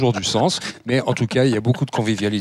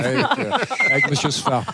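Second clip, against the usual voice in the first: laughing; 3 semitones higher, slower than usual. Real, not acted. Tour cut short.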